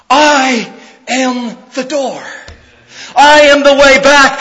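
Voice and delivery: wonderful simplicity. Retold or imitated. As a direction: lay the words down plainly and gently. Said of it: "Jesus says with wonderful simplicity".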